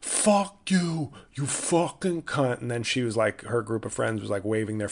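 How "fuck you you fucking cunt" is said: mock yell. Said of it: "the guy was just screaming out".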